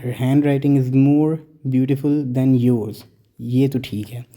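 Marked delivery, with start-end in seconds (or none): 0.0-3.0 very slow, careful reading of the correct sentence; slow model sentence. Shown as a demonstration. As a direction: read the right example slowly for the class. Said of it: "हम कहते हैं".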